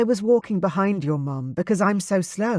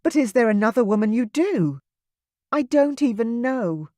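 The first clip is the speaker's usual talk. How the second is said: higher, louder, accusing through tears; tearful fury; 8 semitones higher, 3 dB louder than usual. Acted. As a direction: pour out every grievance. Kayla confronts Anselm, crying angrily.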